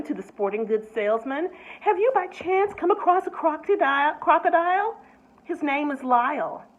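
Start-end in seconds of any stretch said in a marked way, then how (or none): 1.8-6.6 higher, worried lady's plea; a flustered woman asking for help; anxious Mrs Prim. A narrator's reading. Mrs Prim asks a salesman for help, anxious.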